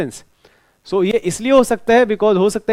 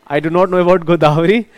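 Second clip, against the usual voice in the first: a bit louder, chuckling through the words; laughing; 4 dB louder than usual. Real, not acted. Teacher repeating to a student that he doesn't know, laughing.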